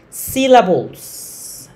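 syllables drawn out slowly and loud; teacher hammering syllables home; stressed key word. Shown as a demonstration. Teacher to students, stretching the word slowly. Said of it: "las sílabas".

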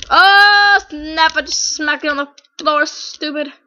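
loud, high mock trash talk; quoted video line. Gamer repeating his video's line, hammed-up loud taunt. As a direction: open on a big yell, then taunt. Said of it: "That was one of the lines".

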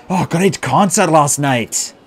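put-on breathless fan with German accent; strong German accent. A narrator's reading. Fan praising last night's concert, strong German accent. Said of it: "with a strong German accent".

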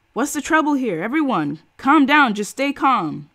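high, loud megaphone call; bullhorn shout. A narrator's reading. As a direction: address the crowd through a bullhorn. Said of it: "the man with the bullhorn was shouting".

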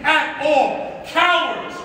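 shrill anger. Real, not acted. Heated rant against cowards.

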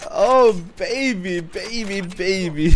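drawn out, high and gleeful; slow gloating. Real, not acted. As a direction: stretch out the celebration. Celebrating a kill.

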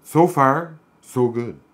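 slow, high, loud mock British accent; hammed-up regal British voice, drawn out; British Queen. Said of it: "Like the Queen".

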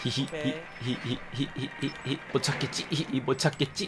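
poltergeist. Pretend. Hiding drone, taunting enemies.

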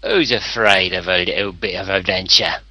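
put-on British accent; jaunty British adventurer. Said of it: "What an epic accent".

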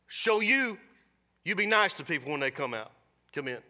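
sharp burst of scolding that fades; a hint of an angry owner punishing the bird; scolding shopkeeper. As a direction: bark at the parrot, then trail off.

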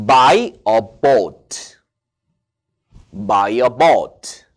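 "Buy a boat" said slowly and loudly, like "bought"; teacher's memory trick. Shown as a demonstration. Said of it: "요게 요렇게 외우세요".

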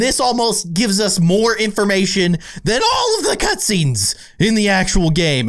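indignant, pitch climbing into a squeak; high-pitched angry voice. Real, not acted. Gamer cheated by missing cutscenes, high-pitched angry voice. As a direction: let exasperation push the voice up high. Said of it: "that was my high-pitched angry voice".

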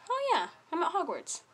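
a hint of a dreamy inner voice; mind's happy realization. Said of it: "your mind starts to believe".

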